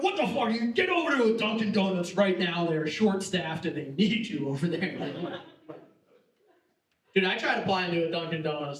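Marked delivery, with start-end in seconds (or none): 0.0-5.4 mock barber scolding. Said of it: "They're just like".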